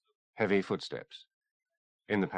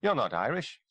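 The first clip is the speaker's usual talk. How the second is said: accusing; 6 semitones higher than usual. A narrator's reading. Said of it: "he told him accusingly".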